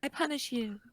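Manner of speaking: put-on magical girl. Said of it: "what does she say?".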